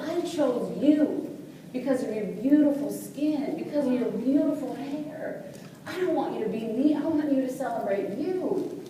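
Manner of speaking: lilting, emphatic motherly affirmation; reassuring mother. Retold or imitated. Mother affirming her little daughter's beauty, reassuring.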